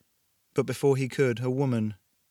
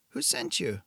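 put-on vague European accent. A narrator's reading. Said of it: "Somewhere in Europe".

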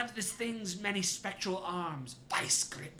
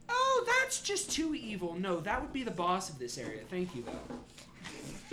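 demon spirit voice. Acted. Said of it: "a giant spirit shouting infernal".

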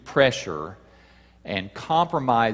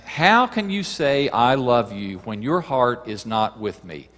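acted reproach. Delilah's reproach, read out dramatically.

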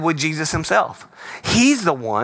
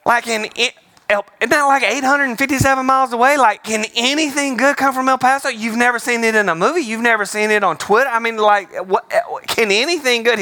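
excited joking; 5 semitones higher than usual. Real, not acted. Mocking El Paso comparison.

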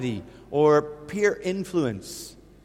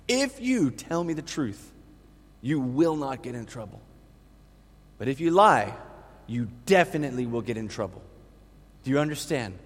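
gentle warning; 2 semitones lower than usual. Retold or imitated. Father gently questions toddler.

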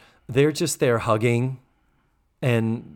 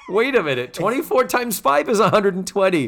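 high, exclaimed double take; hammed-up disbelief at the sum; mock astonishment; 8 semitones higher, 4 dB louder than usual. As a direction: pitch it up as if making a big discovery. Mock amazement at the ring's price.

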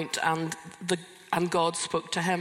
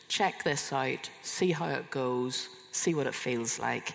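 lower, slow, gently tentative; gentle offering; 4 semitones lower, 3 dB quieter than usual. Retold or imitated. Friend offering words from God, gentle and unforced.

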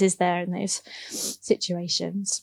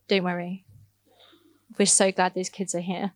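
gently reassuring, a little softer; mild reassurance; 3 semitones lower, 4 dB quieter than usual. Retold or imitated. Church leader replying to an apologetic email, mildly reassuring. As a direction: voice a kind, calming reply.

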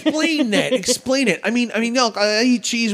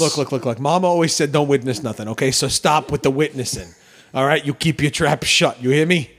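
tough New York mobster voice; lightly voiced New York wise guy; New York accent; 5 semitones lower than usual. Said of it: "there's your New York accent for the week".

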